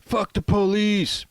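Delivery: put-on slow, high New York accent yell. Inmate yelling at cops in New York accent. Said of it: "yelling ... in a New York-sounding accent".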